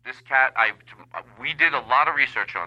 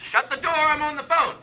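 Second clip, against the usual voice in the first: higher-pitched call across the room; raised-pitch aside away from the caller; calling off the phone; 11 semitones higher than usual. Acted. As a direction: call out to whoever left the door open. Yells to someone off the phone.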